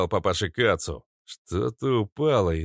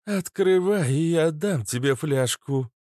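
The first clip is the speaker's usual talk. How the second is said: higher, coaxing coo; 9 semitones higher than usual. Acted. Kobra coaxes Izya with a flask, cooing. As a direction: coo it sweetly. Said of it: "проворковала Кобра".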